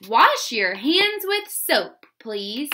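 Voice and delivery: slow dictation voice. Shown as a demonstration. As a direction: read it slowly for spelling. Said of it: "Number two is".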